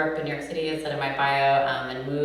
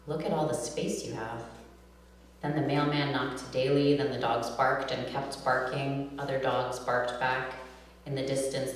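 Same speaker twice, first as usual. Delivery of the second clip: measured, deliberate poem reading; poetry reading; slower than usual. Acted. Poet reads her poem to a live audience, measured reading voice.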